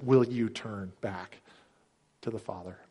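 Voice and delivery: hushed, unhurried entreaty; gentle pleading. Retold or imitated. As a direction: plead quietly, drawing the words out. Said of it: "The Holy Spirit pleads with us".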